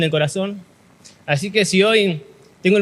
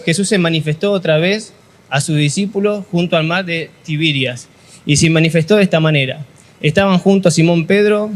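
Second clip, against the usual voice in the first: scripture reading; 3 semitones lower than usual. Acted. Pastor reads John twenty-one to youth, formal reading. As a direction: read the passage steadily to the congregation. Reads the Bible passage aloud.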